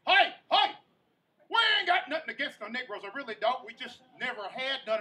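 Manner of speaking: shouted hick yell, high and loud; rowdy redneck relative hollering at the wedding; loud country relative. Retold or imitated. Country family yelling at wedding.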